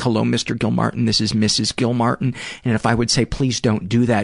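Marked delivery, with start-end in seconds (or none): 0.0-2.3 flirtatious, flirty tone. Recounting how she would call and talk to him, imitating her flirty tone. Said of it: "talk to me like in a flirty tone".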